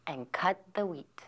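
soft breathy whisper. A narrator's reading. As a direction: hush the words as she cuts. Narration drops to whisper.

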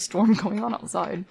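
crackly, distorted line; fuzzy audio with a short laugh; fuzz distortion. Real, not acted. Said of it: "I'm sorry about the distortion here".

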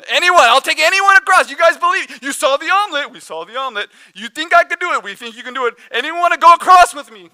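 high, loud showman pitch; showman calling out. Retold or imitated. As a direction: call out to the whole crowd. Tightrope walker calling to crowd.

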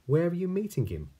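snake voice. Acted. Snake asks mouse.

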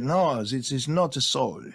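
a mock French accent, lightly done; a hint of a French accent, half-hearted; bad French accent. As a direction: play Descartes with a hammed-up French accent. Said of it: "very bad French accent".

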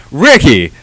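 high, loud, slow cartoon greeting; hammed-up high voice, loud and drawn out; cartoon character impression. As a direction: greet a buddy like a cartoon kid. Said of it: "whoever does, like".

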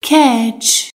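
"Catch." said as ketch, with no t sound before the ch; silent t in catch. Shown as a demonstration. Teacher to learners, showing the silent t in "Catch.". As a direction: say "Catch." so the t is swallowed into the ch. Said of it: "حرف تی در کلمهٔ catch خونده نمیشه".

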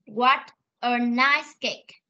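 "nice" leaned on, very slow; slow demo with weight on "nice"; stress on nice. Shown as a demonstration. Teacher repeating the sentence for a pupil, stressing nice. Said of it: "Con sẽ đọc lại cho cô".

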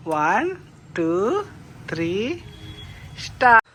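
spaced count bursting into a loud "start"; playful countdown. Real, not acted. Parent counting down to put child's shirt on, playful rallying.

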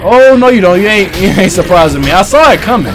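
taunting. Real, not acted. Taunting monster.

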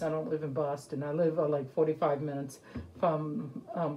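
mask held over mouth; muffled through cloth; talking through a face mask. Real, not acted. Seen 3: Cloth mask held over mouth, briefly lowered near 1.9s.

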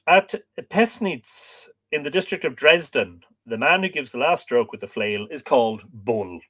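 measured, projected reading voice; book reading aloud. Acted. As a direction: read the old text out to listeners with clear phrasing. Reads the book aloud to viewers.

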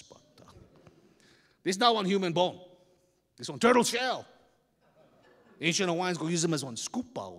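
lightly voiced big local man; amused elder setting kids straight; Hawaiian neighbour.

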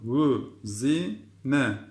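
"Vü, zi, ne" sounded out piece by piece; syllable-by-syllable reading. Shown as a demonstration. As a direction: sound out "Vü, zi, ne" carefully. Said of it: "Bir daha okuyorum".

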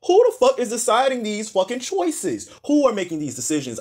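incredulous furious yell; outraged. Real, not acted. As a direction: blast the stylists in disbelief. Outraged fashion critique outburst.

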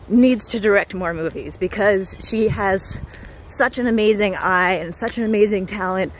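slightly breathless while walking; out of breath. Real, not acted. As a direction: talk a little winded. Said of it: "I'm kind of out of breath".

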